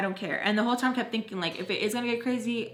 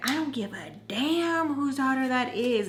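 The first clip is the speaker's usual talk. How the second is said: retold defiant retort; 3 semitones higher than usual. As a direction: mimic a rowdy woman refusing to back off. Retold rowdy drunk woman's retort.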